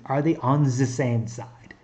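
hammed-up German accent, the as ze; a mild, jokey bad German accent; playful German accent for a memory trick. Shown as a demonstration. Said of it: "In a really bad German accent".

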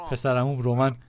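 words broken up by laughter; laughing. Real, not acted. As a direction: say it through a laugh. Laughs while saying it. (با خنده)

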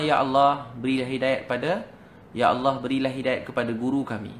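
insistent appeal to God; pleading prayer. Retold or imitated. Students praying nonstop for their teacher, pleading prayer. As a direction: imitate students praying over and over. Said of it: "Dia tak berhenti-henti doa".

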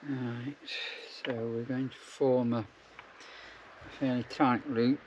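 talking around a needle in mouth; mumbled through a needle held in teeth. Real, not acted. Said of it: "easier if I don't speak with a needle in my mouth".

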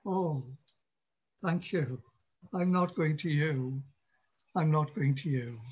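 soft, mildly sarcastic thanks, then turning away; a hint of a hurt mourner saying no; quiet bitter refusal. Mourner quietly turning down the atheist's bleak words.

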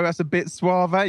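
high, slow, hammed-up posh "That's a bit suave"; mocking posh voice. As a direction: send up a snooty diner, pitched high and slow. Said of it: "If you go to a posh restaurant".

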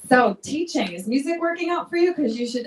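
playful impression of mom with a Jersey accent. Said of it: "I don't know why she has an accent like she's from Jersey".

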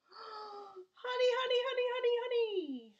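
high, loud crooning over the honey; honey craving. Acted. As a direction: swoon with greed for honey. Bear Norman craving the honey.

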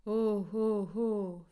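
wordless rapture, let it out; overwhelmed cries of ecstasy; inarticulate cries. A narrator's reading. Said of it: "en témoignage inarticulé".

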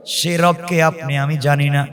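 ordinary talk

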